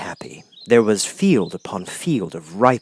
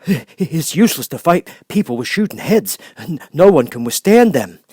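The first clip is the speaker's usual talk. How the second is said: a hint of a higher, rueful Lion; lightly voiced bruised Lion; 7 semitones higher, 5 dB louder than usual. Bruised Lion telling Dorothy fighting is useless, rueful. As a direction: sore and defeated.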